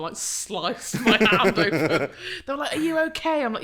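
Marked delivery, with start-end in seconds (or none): 2.8-3.4 higher, louder mock-alarmed question; concerned onlooker. Bystanders to an injured photographer, concerned. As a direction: imitate an alarmed bystander checking on someone. Onlookers ask after she's hurt.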